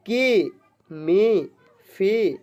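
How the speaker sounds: के, मे, फे one at a time, long "ay" vowel; syllable reading demo. Shown as a demonstration. Teacher reading e-matra syllables for pupils, separately and drawn out. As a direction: sound out के, मे, फे separately, vowel held. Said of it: "इसको हम लोग पढ़ेंगे".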